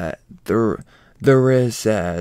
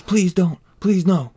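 mock pleading; 7 semitones higher than usual. Loki begging as hammer flies.

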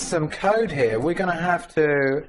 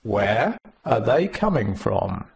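skeptical uh-huh; 5 semitones lower, slower than usual. Retold or imitated. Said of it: "those of us who'd been working on Emacs Wiki for a while went".

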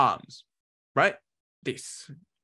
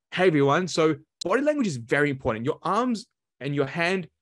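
animated, emphatic talk to an audience; engaging presenter; 3 semitones higher than usual. Shown as a demonstration. Coach showing networkers how body language engages people, animated. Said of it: "if I utilize my body language".

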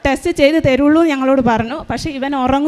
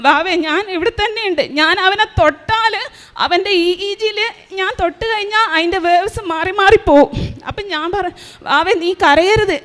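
put-on higher, gentle comforting of a child; mother calming her son during the test, tender and higher; reassuring; 4 semitones higher than usual. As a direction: soothe your little boy so he stays still.

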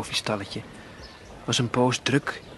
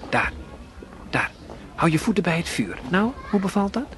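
kinder tone; 7 semitones higher than usual. A narrator's reading. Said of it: "En vriendelijker liet hij erop volgen".

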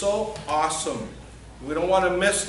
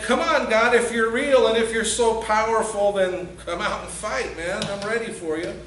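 defiant taunt; 3 semitones higher, 3 dB louder than usual. Retold or imitated. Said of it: "and saying".

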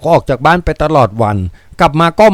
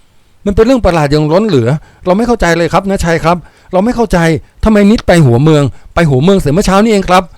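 loud voice; 3 semitones higher than usual. Acted. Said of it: "รับสั่งด้วยเสียงอันดัง".

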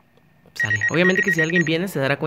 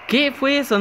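sudden high startled question; what was that, much higher and louder; 11 semitones higher, 6 dB louder than usual. Real, not acted. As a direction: blurt it out, caught off guard. Sudden glitch in game.

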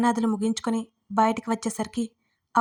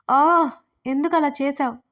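higher, louder, slow tearful cry; wailing in tears; 4 semitones higher, 4 dB louder, slower than usual. Acted. Wife throws a pillow at him, crying wail. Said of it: "తల కొట్టుకని ఏడవసాగింది".

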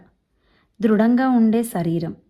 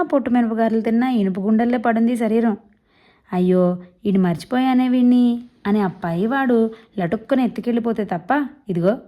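put-on boastful old man. Old man jokes to Keshava about his health, hearty. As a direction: brag about his iron health, jovial. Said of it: "Godavari యాసలో గబగబా మాట్లాడేస్తుంటారు".

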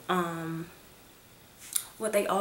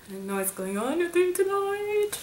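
laughing aside; 10 semitones higher than usual. Real, not acted.

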